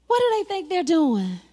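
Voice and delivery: mild, measured mock taunt. Sanballat name-calling the builders, mild mock taunt. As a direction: taunt lightly in a level voice. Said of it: "they started name calling".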